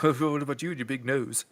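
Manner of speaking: Cockney quote. Retold or imitated. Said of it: "what is that accent?".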